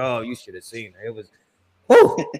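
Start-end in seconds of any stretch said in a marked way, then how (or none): 1.9-2.3 a high, loud whistle-like whew of admiration; admiring whew. Retold or imitated. Telling friends about the cheerleader, an impressed high whew.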